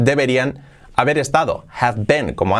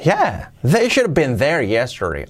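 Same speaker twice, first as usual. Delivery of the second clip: with intonation; 2 semitones higher than usual. Pretend. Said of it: "la entonación".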